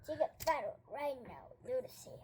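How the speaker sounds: unvoiced secret whisper. Whispered back and forth.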